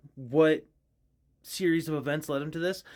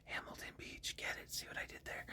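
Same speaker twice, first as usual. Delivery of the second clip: whisper; 20 dB quieter than usual. Real, not acted. Whispered pun aside.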